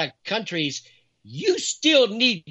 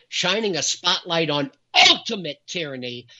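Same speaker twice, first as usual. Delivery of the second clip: "ultimate" pressed hard with the weight of the title; stress on ultimate. Shown as a demonstration. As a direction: punch "ultimate" inside the title. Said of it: "I put emphasis on that word ultimate".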